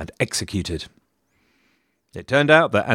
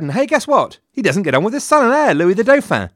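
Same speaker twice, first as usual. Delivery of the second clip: sarcastic; 10 semitones higher, 4 dB louder than usual. Acted. Mock surprise at repeating feud.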